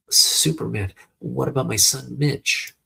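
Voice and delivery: high, urgent worried question; anxious mother. Acted. Mother asks hero about her son, anxious plea.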